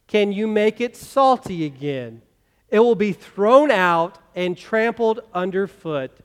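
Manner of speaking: slow, measured scripture reading aloud together; congregational reading. Acted. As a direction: read it out slowly with the whole church. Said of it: "let's say this together".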